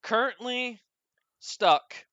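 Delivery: flat, even robot voice. Acted. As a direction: speak like a ship's computer. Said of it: "a robotic voice".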